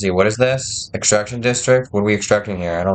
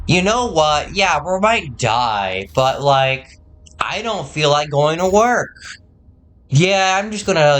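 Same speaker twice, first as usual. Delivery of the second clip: higher-pitched imitation of a lazy shirker; mock lazy slacker; 4 semitones higher, slower than usual. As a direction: mimic someone who can't be bothered. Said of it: "there are lazy people out there who are like".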